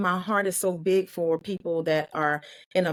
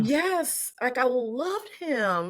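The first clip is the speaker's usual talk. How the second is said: tearful; 6 semitones higher, much slower than usual. Real, not acted. Tearful memory of Robin.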